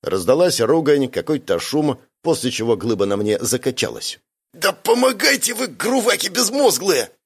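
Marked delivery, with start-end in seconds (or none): 4.5-7.1 very high, strained angry voice, slowing at the end; angry hiss. A narrator's reading. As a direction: snap furiously in a high, squeezed voice. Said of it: "зло прошипела Зарина".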